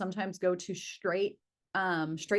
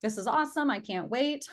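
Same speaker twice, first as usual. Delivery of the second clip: higher, lightly gushing delight; acted excitement; 5 semitones higher than usual. Coach voicing a client eager about a new lead, excited. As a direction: play the eager, thrilled reaction. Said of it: "you may be excited and be like".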